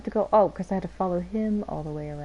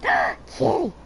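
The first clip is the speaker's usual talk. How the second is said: excited gasp. Real, not acted. Spots cat, gasps excitedly.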